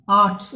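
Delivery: आर्ट्स with the aa held longer; teacher's model आर्ट्स, long aa; long aa vowel. Shown as a demonstration. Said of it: "ज़्यादा समय ले रहे हैं".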